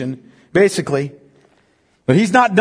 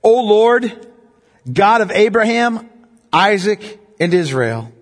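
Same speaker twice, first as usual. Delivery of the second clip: slow, raised, pleading prayer; fervent prophet's prayer; 2 semitones higher, slower than usual. Acted. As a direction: cry out to the Lord, slowly. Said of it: "Elijah the prophet came near and said".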